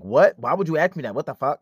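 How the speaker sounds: loud, taken-aback "what"; offended disbelief. Retold or imitated. Friend offended by the STD question, mock outrage. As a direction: imitate an affronted friend, starting loud.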